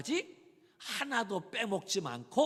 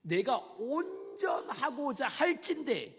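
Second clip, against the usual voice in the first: slow, louder proclaiming of 할진대; slow shout; 4 semitones higher, 5 dB louder, slower than usual. Acted. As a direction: call 내가 온전하고자 할진대 out to the whole hall slowly. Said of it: "중요한 이야기".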